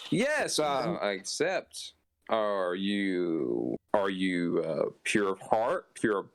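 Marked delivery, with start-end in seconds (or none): 0.1-1.9 lofty, gracious deity voice; goddess voice. Acted. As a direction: speak like a pleased goddess. Goddess patron voice.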